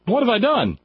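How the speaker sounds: high, whiny cartoon hunter voice; Elmer Fudd voice. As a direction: play a flustered cartoon hunter. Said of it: "Elmer Fudd".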